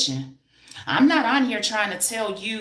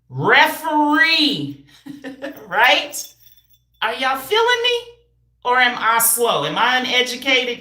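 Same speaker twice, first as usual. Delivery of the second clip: high, loud, pumped-up coach energy, calling out to the class; loud hype; 7 semitones higher, 4 dB louder than usual. Acted. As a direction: hype up the crowd like a coach at practice. Loud hyped whistle lesson to viewers.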